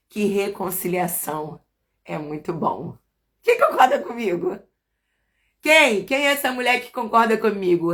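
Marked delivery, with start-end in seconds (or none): 3.5-7.9 calling out. Real, not acted. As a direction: call out and single someone out. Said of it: "calling out to congregation".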